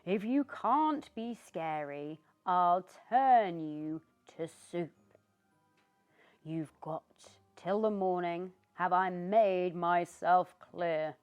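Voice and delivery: loud, threatening witch; glaring witch. Acted. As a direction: menace him with every word. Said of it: "glared down at Christopher".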